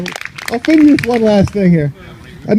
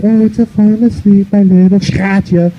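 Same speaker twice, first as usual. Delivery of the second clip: slow, cooing pet-name voice; hammed-up sweet talk at bedtime; mock bedtime tenderness; slower than usual. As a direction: coo it slowly like tucking someone into bed. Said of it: "it's like you going to bed".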